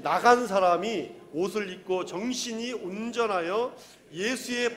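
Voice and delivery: firm, sustained congregational reading; scripture reading. Real, not acted. Preacher reads verse thirty-five with the congregation, scripture reading. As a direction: read the verse out in a steady cadence.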